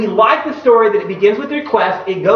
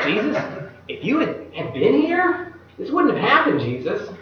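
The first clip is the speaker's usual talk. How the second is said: reproach; 3 semitones higher, 5 dB quieter than usual. Shown as a demonstration. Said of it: "Or it may have been a".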